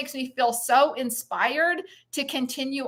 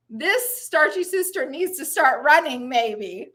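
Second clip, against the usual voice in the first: out of breath. Real, not acted. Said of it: "I'm out of breath".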